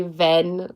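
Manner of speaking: wenn said the German way with a V sound. Shown as a demonstration. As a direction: say wenn as an Austrian would, V for W. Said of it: "if I was to say in a German accent".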